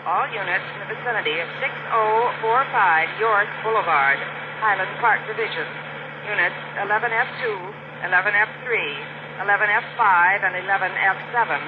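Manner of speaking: tinny dispatcher voice over radio; police radio. Acted.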